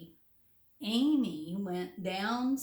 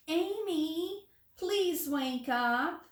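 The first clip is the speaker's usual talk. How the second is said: very nicely; 6 semitones higher than usual. A narrator's reading. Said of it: "said very nicely".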